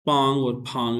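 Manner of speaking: पांग without a puff, फांग with released breath; aspiration contrast. Shown as a demonstration. Teacher showing the difference between initials, aspiration contrast demo. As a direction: set breathless पांग against puffed फांग. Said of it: "pay attention to the differences between initials".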